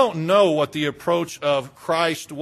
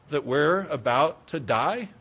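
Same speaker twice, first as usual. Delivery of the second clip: sudden soft, low question; hushed plea; 4 semitones lower, 5 dB quieter than usual. Acted. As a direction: drop to a quiet, low reproach. Scolding drops to hushed plea.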